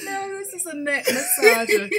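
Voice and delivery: cracking up while correcting everyone; laughing loud and high. Real, not acted. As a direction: blurt it out mid-laugh. Laughing at neck joke.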